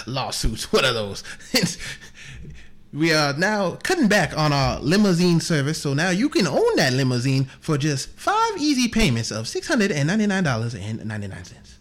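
John Thomas Aloysius Booth. Acted. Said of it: "It's John Thomas Aloysius Booth here".

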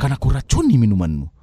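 low dramatic soap villain; lightly voiced sinetron schemer. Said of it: "nada sinetron pasti begitu".

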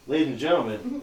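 put-on old-time Mid-Atlantic announcer; Mid-Atlantic accent. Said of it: "Mid-Atlantic accent".

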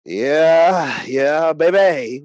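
put-on loud, slow, hyped-up yeah baby; hyped yell. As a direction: drag it out like a hype man. Hyping the Super Click.

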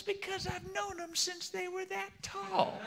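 slow falsetto Cajun punchline; Cajun accent. Acted. Thibodeau explaining to Boudreaux in a joke, Cajun accent. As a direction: stretch the punchline high in comic Cajun. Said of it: "start talking like a Cajun".

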